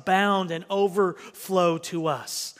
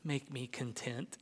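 reluctant prayer; 5 semitones lower, 8 dB quieter than usual. Acted. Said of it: "it's hard to even pray".

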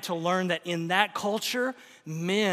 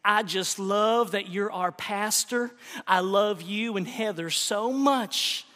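put-on Southern accent; 3 semitones higher than usual. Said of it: "said with her Southern accent".

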